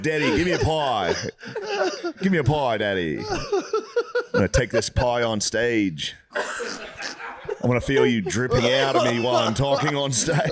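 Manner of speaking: half-laughing mock plea, slow in spots; giggling while acting out the son's line; laughing through a mock quote. Mock-pleading to Daddy, laughing. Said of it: "He said".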